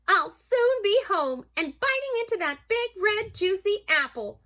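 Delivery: high, loud, excited mouse thought; eager anticipation. Acted. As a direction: look forward to the treat with relish. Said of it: "thought Mouse".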